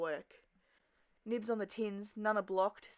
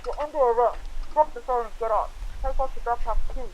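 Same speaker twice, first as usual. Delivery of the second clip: loud, raised arresting orders; police officer; 5 semitones higher, 16 dB louder than usual. Acted. Cops arresting a graffiti writer, loud and commanding. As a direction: command it firmly from the law's side.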